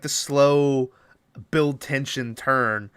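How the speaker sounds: mock-suspenseful, slowed right down; illustratively dragged out; drawn-out slow. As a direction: stretch each word to mimic building tension. Drags words to mimic slow turn.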